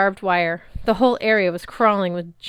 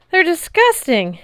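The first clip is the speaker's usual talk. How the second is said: high, loud, slow revulsion; disgusted; 10 semitones higher, 7 dB louder than usual. A narrator's reading. Girl disgusted by the stables, loud revolted voice. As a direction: spit it out in disgust. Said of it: "Annabeth said".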